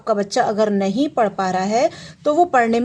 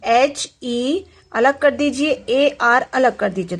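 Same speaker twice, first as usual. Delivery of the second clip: slow spelling out; slower than usual. Shown as a demonstration. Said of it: "मैं आपको बता रही हूँ".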